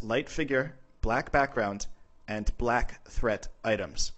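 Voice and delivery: "light figure, black background, black threat items" slowly spaced out; slow, deliberate beats on "light figure", "black background", "black threat items"; emphatic recap. Real, not acted. Narrator repeating the key point to viewers, "light figure, black background, black threat items" slow and emphatic.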